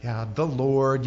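lightly mocked pious churchgoer, slow; Christianese. Church member greeting a brother, slightly hammed-up Christianese. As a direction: stretch the greeting into mock church-speak. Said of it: "We can speak Christianese".

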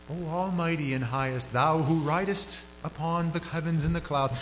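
grandly over-formal praying voice, lifted pitch; mock lofty prayer. Showing prayer nobody would normally speak, mock-grand. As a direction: parody a flowery public prayer. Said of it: "I don't speak like that".

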